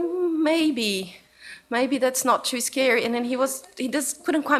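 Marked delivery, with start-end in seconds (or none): 0.0-3.0 put-on high, hesitant child voice; uncertain little boy. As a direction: imitate a toddler weighing it up, unsure. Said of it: "he was uncertain".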